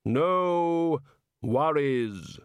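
stretched, solemn Reaper attempting Aussie slang; Death. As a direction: intone each word separately as Death. Death borrows the local phrase.

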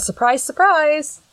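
high, slow and sneering; mocking a mother's flat sarcasm; mock sarcastic. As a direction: drip the sarcasm, drawn out. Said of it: "she just went".

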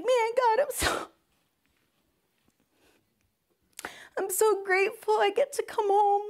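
high, cracking voice holding back tears; real tears breaking through the gratitude; emotional, near tears. Real, not acted. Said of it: "Whew, I'm getting emotional".

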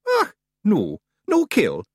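high, loud broad Scottish pixie voice; a cocky wee Scots fighter; tiny Scots warrior. Acted. Rob Anybody answering the boy, high broad Scots.

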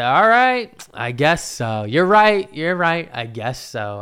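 joking surrender. Retold or imitated. Man jokingly pretends to pay up, mock concession. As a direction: give in playfully, words punched then dropping. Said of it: "as a joke".

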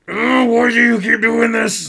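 high, loud whiny shout; mock exasperated shout. The speaker scolding Jey in the office, a high mock shout.

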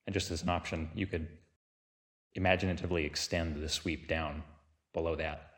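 unhurried meditation guide with long pauses between phrases; guided meditation. Real, not acted. Teacher leading listeners through a body sweep, calm guided-meditation delivery.

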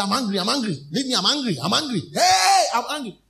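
mock angry rant. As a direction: play the grumpy old self, rising to a yelp on hey. Imitating old angry self.

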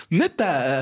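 drawn-out sarcastic "Neta". Retold or imitated. Boy answering the bully's warning, sarcastic. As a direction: pretend to be impressed. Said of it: "como sarcástico".

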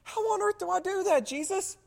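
high, incredulous plea to Jesus; exasperated question. Retold or imitated. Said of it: "any rational person right now is going".

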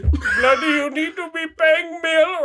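high-pitched mock South Asian scammer, annoyed; pissed-off scammer accent. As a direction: demand payment in a put-on South Asian accent. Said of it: "sometimes they get pissed".

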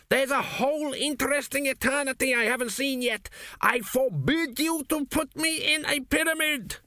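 high, breathless whispered forbidding; a spirit hissing its refusal; high ghostly whisper. A narrator's reading. Dead king whispers his refusal to his son.

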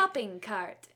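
"shopping cart" precisely enunciated like a Northerner; lightly mock northern Siri-like diction on "shopping cart"; enunciated northern accent. Imitating Northerners who sound like Siri, northern accent. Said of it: "they sound like Siri".

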